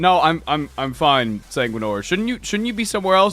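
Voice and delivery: lightly voiced, stammering brush-off; awkward reluctant Dante. Dante tells his guardian he is fine, lightly acted awkwardness.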